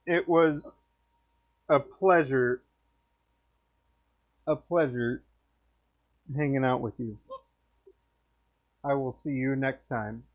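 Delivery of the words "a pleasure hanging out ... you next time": talking through hiccups; words broken by hiccups. Real, not acted. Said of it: "I'm so sorry I got the hiccup".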